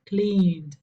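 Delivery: "cleaned" in one syllable, n running into d; ED as voiced d. Shown as a demonstration. Teacher models the voiced rule, "cleaned" ending in d. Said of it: "con un sonido nasal".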